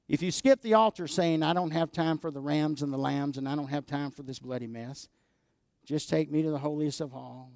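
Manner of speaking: loud, brash voice of someone skipping the altar; mock impatient shout. Preacher mimics a careless worshipper, loud and brash.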